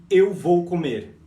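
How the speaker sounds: loud teaching model; loud slow demo. Shown as a demonstration. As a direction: project the example. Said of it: "se eu falo assim, ó".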